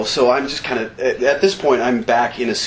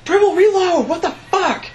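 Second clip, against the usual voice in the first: yelled order. Retold or imitated. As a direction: shout the order over the gunfire. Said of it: "he's going".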